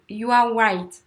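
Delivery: "white" where "right" is meant. Shown as a demonstration. Teacher showing a common learner swap, "white" with a W. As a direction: round the start of "white" into an oo. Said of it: "c'est qu'on inverse souvent".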